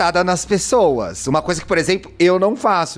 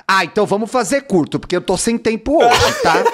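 mock-curt group message, slightly pitched up; imitated rudeness; 4 semitones higher than usual. Co-host mimicking a colleague's group message about being short on time, mock-rude. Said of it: "Ela é grossa".

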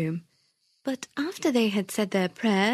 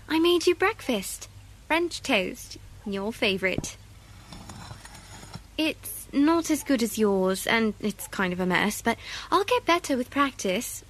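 put-on a proud child showing off breakfast; a hint of a shy little girl. Girl voiced in read story.

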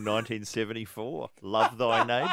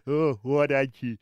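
John Howard impression. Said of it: "do a little bit now for us".

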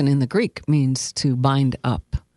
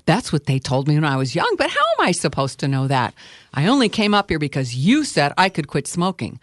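put-on a touch of haughty teenager; somewhat impatient. Doubter answers the preacher's question, somewhat impatiently. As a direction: protest with mild impatience. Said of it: "somewhat impatiently".

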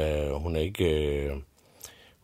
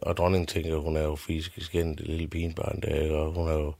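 usual speaking voice

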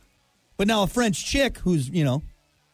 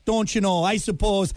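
put-on Canadian accent. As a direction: stretch it out like a Canadian parody. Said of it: "That's Canadian".

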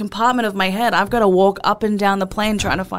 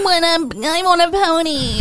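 high whiny nasal-less put-on voice; whiny Jewish voice; 7 semitones higher than usual. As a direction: whine it like a spoiled kid. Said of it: "That's a Jew voice".

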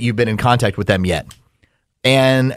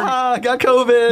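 mocking laugh; 9 semitones higher than usual. Mock comedy punchline.

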